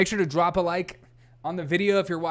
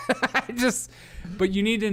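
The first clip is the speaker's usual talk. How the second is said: high, giggled aside; laughing; 6 semitones higher than usual. Real, not acted. Apologising for reading this, laughing. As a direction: start a sentence through giggles.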